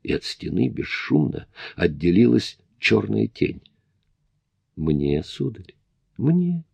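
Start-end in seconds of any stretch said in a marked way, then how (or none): 4.8-6.6 медленно, зловеще, с взлётом в конце; вкрадчивый зловещий управляющий; creepy butler. A narrator's reading. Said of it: "послышался короткий смешок". (жуткий дворецкий)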